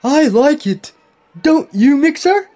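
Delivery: very high, loud cartoon delight; high-pitched, thrilled little machine; enthusiastic. A narrator's reading. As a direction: pipe up eagerly, high and loud. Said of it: "Pump said enthusiastically".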